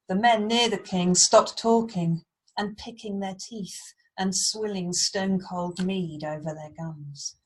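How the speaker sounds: dramatic storybook reading; story narration. A narrator's reading. Teacher reads Beowulf to Year Four, storytelling voice. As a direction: read it with weight on key words.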